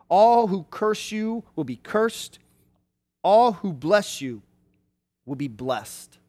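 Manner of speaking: measured, emphatic proclamation; solemn blessing. Acted. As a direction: pronounce a father's blessing with deliberate weight. Reads out the father's solemn blessing.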